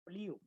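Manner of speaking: flew said softly and slowly as a model for the class; model pronunciation. Shown as a demonstration. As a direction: show flew, one syllable that ends in "oo". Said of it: "se pronuncia así". (pronunciación modelo de flew, suave y en una sola sílaba)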